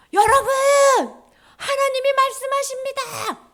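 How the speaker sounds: loud, high-pitched acted announcement; prophet's proclamation. Prophet rising to address the discouraged builders, loud proclamation. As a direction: call out to the whole crowd.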